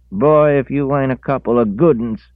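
high, loud scolding woman; angry country woman. A narrator's reading. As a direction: scold them sharply. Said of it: "she said".

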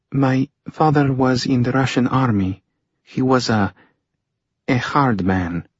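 halting daughter's voice, pain held in; buried pain. A narrator's reading. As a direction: hesitate over the painful memory. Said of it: "hear the buried pain in her words".

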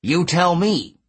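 satyr voice. A narrator's reading. Hedge speaking, gruff satyr.

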